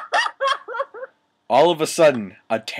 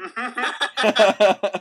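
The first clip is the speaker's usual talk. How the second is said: high, put-on villain cackle; crude villain laugh; 11 semitones higher than usual. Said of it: "He laughed crudely".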